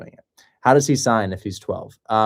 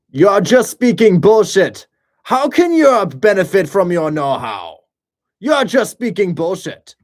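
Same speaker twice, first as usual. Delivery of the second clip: put-on angry German accent; 9 semitones higher, 9 dB louder than usual. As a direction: bellow it like an angry German on the phone. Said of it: "imagining an angry German man".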